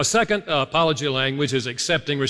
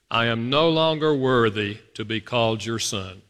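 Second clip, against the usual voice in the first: regretful; 4 semitones lower than usual. Shown as a demonstration. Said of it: "You feel the regret in that?".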